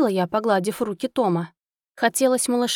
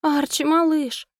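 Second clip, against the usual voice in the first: slow, high pitiful moan; plaintive moan; 6 semitones higher, slower than usual. Acted. Wife moaning over her unmoving squirrel, slow pitiful cry. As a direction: whimper his name in despair. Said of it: "жалобно простонала я".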